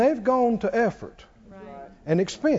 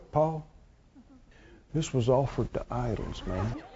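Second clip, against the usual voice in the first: much softer and lower, a confidential murmur; hushed aside; 7 semitones lower, 10 dB quieter than usual. Retold or imitated. A dinner guest warns Paul about the meat, hushed and confidential. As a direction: lean in and tell a secret. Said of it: "they lean over and go".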